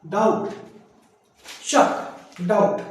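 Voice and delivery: डाउट said daut, no b sound; slow डाउट with the b silent. Shown as a demonstration. Teacher modelling doubt slowly for the class. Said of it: "यहाँ पे B नहीं बोल रहा हूं".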